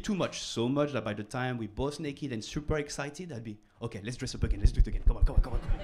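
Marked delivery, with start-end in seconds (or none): 3.8-5.8 louder, impatient come on; eager urging. Retold or imitated. He urges his partner to hurry up, eager. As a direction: hurry your partner along, half-joking. Retold over-eager lover.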